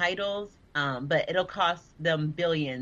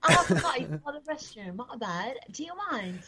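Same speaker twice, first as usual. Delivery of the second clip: high mock British accent; put-on British accent; 5 semitones higher than usual. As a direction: play at being British, pitched up. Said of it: "I'll do a British accent".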